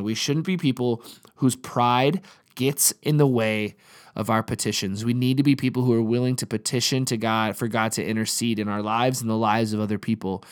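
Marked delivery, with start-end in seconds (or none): 0.0-5.0 slower, every word weighed; emphatic slow restatement; slow deliberate repeat. Shown as a demonstration. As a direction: repeat it slowly so it sinks in. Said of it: "I wanna say that again".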